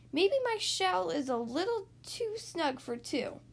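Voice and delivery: lightly voiced tortoise, drawing the words out; tentative Tortoise. Tortoise gently doubting the shell fits two, tentative. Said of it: "suggested Tortoise".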